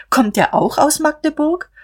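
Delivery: high, insinuating question; pointed question. A narrator's reading. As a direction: ask it pointedly, pitch climbing high. Sister's pointed question in a quarrel. (spitze, hohe Nachfrage)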